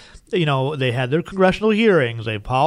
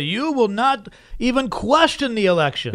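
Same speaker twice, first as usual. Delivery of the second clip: slow, higher mock German accent; hammed-up German accent for a stern decree; co-host doing a bad German accent as a Chinese decree; 6 semitones higher, slower than usual. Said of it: "That's more of a German accent".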